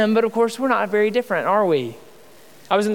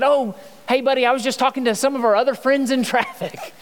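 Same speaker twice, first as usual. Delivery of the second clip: put-on higher, sweet dad voice to a toddler; kind parental voice; 5 semitones higher than usual. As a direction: cover it up with a gentle parent voice. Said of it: "revert to my kind voice".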